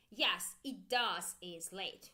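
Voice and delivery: slow, with "does" stressed; drawn-out "does" before "is"; wrong emphatic DOES. Shown as a demonstration. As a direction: model the mistake, leaning on "does". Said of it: "we don't need to say".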